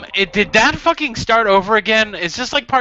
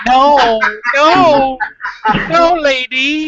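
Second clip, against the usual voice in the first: loud protest; 5 semitones higher, 3 dB louder, much slower than usual. Real, not acted. Protesting at the video woman.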